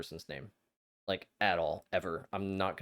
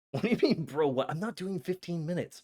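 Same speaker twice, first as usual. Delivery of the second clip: laughing; 7 semitones higher, 4 dB louder than usual. Real, not acted. Laughing refusal of fifteen minutes.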